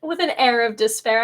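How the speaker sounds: "an air" leaned on as a correction; stress on an air. Shown as a demonstration. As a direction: correct her, press on "an air". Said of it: "I wouldn't say she's full of it".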